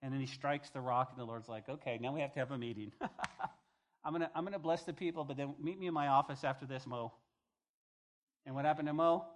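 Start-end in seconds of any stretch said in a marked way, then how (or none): 1.7-7.1 fast, chuckling boss voice; a boss calling a meeting with a grin; laughing casual God. Retold or imitated. The Lord to Moses after the rock, fast chuckling.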